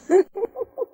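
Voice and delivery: a sudden high burst of laughter. Real, not acted. Amused by the talkative dog, a high real laugh.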